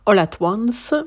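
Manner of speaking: "Everything Everywhere All at Once" in a deliberate English accent, half-joking; playful English accent on the title; self-mocking English accent. Shown as a demonstration. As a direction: put on your best English accent for the film title. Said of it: "mon super accent anglais".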